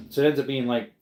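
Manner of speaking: hair in mouth. Real, not acted. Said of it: "sorry, I got a hair in my mouth".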